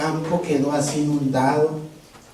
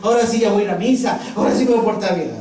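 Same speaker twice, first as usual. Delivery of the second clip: fast, louder, eager apologetic pleading; begging forgiveness; 5 semitones higher, 4 dB louder, faster than usual. Acted. Hanging atheist begs Jesus forgiveness, eager pleading. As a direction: grovel and promise everything.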